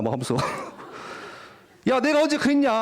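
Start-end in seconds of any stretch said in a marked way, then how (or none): 1.9-2.7 high-pitched mock wounded protest; tearful protest. Wronged teen confronting friends, mock tearful protest. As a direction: act out an indignant, tearful denial, lightly hammed up. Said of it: "눈물 흘리면서 막 하소연하다가".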